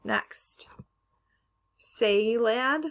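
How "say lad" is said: "Salad" as SAY-lad; long A. Shown as a demonstration. Teacher trying out the wrong option, "Salad" as say-lad. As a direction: say "Salad" with the a of day. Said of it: "How would we pronounce".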